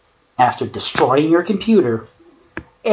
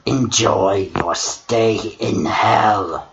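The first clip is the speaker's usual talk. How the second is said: demonic tone; 3 semitones lower, slower than usual. Acted. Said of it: "in a demonic tone".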